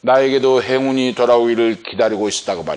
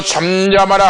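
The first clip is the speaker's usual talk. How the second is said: loud, high mock rebuke; retold scolding; 5 semitones higher, 4 dB louder than usual. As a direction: act out a crowd's sharp order to hush. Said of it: "많은 사람들이 꾸짖어". (군중이 꾸짖듯 높고 크게)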